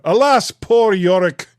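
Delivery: mock-theatrical Hamlet line, lightly; quoting Shakespeare. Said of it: "I just know all the classic lines".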